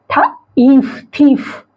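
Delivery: "थ", pause, "ईफ", then whole "थीफ"; phonics blending. Shown as a demonstration. Teacher blending for learners, "थीफ" said in parts then whole. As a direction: sound out "थीफ" with long ee. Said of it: "इसका उच्चारण क्या होगा".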